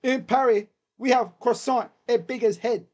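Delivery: badly faked French accent, playful. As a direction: put on a rough French accent. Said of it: "I can't do French accent".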